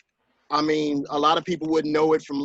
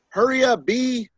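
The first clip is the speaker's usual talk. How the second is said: higher-pitched mock impatient call; disrespectful boyfriend; 8 semitones higher, 3 dB louder than usual. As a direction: imitate a boyfriend rudely hurrying her along. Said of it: "that was disrespectful enough".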